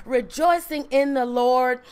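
slow, weighty reading of the verse; solemn scripture reading. Acted. Preacher to congregation, slow solemn verse reading. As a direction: lean into each word of scripture.

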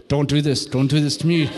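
low, tight public-fight voice; through the teeth. Acted. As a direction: mimic a couple fighting through gritted teeth. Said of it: "You do it through your teeth".

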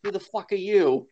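imitating an actor's accent; quoted in an imitated actor's accent; Michael Fassbender's accent. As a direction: mimic the star's accent on the quoted line. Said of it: "he says it in his accent".

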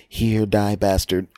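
grumpy clerk. Retold or imitated. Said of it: "her normal, wonderful self".

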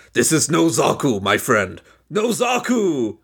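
hammed-up villain catchphrase, last words drawn out; slow, theatrical declaration with a drawn-out finish; Ramba Ralph. Host performing the famous meme line, hammed-up character voice. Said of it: "that's my Ramba Ralph voice now".

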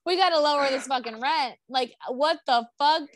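high mock outrage, dragging out the final exclamation; retold indignation. Continues neighbors' rent complaint.

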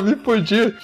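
high, loud "Me fudi" like a panicked guy; voicing the bleeding guy's dismay, high-pitched and loud; mock worried guy.

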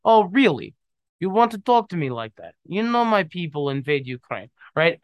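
mock-aggressive Russian accent. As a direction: put on a Russian accent and confront them. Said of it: "should have talked in a Russian accent".

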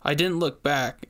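usual speaking voice

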